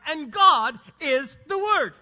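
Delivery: slow, loud stress on GOD and WORD; GOD and WORD punched high and loud; emphatic declaration. Real, not acted. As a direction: drive home "God is the Word", each piece set apart. Preacher drives home his main point.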